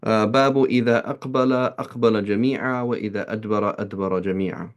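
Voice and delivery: fast Arabic text reading; hadith recitation. Acted. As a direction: rattle off the chain of narrators. Reads hadith chain in Arabic.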